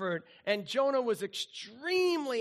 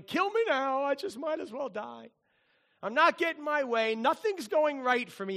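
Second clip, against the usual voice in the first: mock whiny complaint, a bit higher; whining Jonah; 4 semitones higher than usual. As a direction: whine it like a sulking prophet. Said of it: "He's crying, whining".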